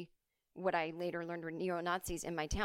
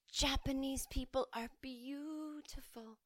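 a hint of a put-on higher voice, slow; lightly voiced schoolgirl boasting; mock classmate; 6 semitones higher, 5 dB quieter, slower than usual. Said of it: "she would do a crazy accent".

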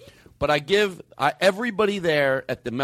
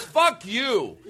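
higher-pitched, laughing curse; mock aggressive; 7 semitones higher than usual. Audience member to host at the truck, mock aggressive. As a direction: hurl it back as a playful insult. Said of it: "they all did it like that".

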